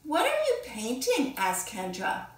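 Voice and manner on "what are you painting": put-on much higher, bright questioning child voice; curious classmate. Kendra asking the painter what she paints, higher and curious. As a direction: lift the voice up like a nosy little girl.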